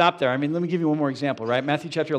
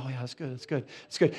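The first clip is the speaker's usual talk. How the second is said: polite amening. Retold or imitated. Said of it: "I appreciate you all going".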